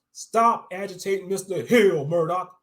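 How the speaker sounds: guard shouting an order; guard yelling. Acted. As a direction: bark the order across the room. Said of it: "a guard yelled".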